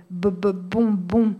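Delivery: lightly voiced stutter on bo-; a hint of the brother blocking on the first syllable. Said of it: "mon frère a bloqué dès la première syllabe".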